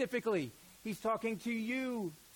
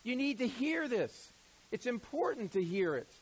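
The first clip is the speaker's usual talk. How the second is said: blunt apostle; 4 semitones higher than usual. Retold or imitated. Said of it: "James is like".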